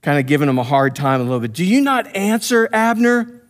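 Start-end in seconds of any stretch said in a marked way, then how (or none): 1.5-3.4 high-pitched mock calling out; imitated yell across a distance; retold hollering. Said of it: "yelling at him".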